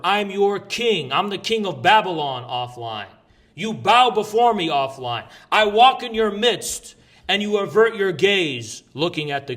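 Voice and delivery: slow, grandiose emperor proclamation; dark lord. Acted. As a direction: decree it like a tyrant king. Casts himself as the king.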